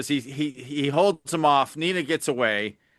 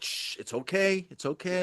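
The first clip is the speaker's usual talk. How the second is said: soft, hushed imitation of reassurance; mock soothing hush; 2 semitones higher, 8 dB quieter than usual. Podcaster imitates Bryce calming Tom, softly hushed. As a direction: shush and soothe someone very quietly. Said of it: "He's like".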